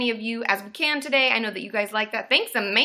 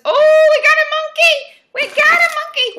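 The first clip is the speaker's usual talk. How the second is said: high, loud monkey-like hooting; playful monkey call; monkey whoops; 10 dB louder than usual. Acted. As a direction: shriek it out like an excited monkey. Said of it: "My monkey sounds are hopefully improving".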